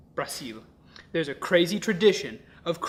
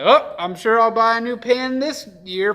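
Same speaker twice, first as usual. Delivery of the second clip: carefree; 7 semitones higher, 11 dB louder than usual. Retold or imitated. Mock carefree New Year's thought.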